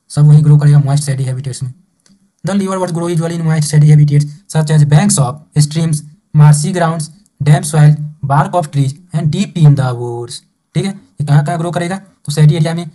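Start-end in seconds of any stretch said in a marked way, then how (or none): 2.4-10.4 slow, deliberate textbook reading; measured dictation pace; reading aloud. Acted. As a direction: read it out word by word for the class. Teacher reads textbook line aloud.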